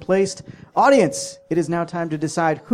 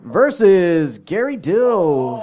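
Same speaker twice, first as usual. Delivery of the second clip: slow laughing announcement; announcer voice; 3 dB louder, much slower than usual. Acted. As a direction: announce the matchup slowly. Announcing matchup.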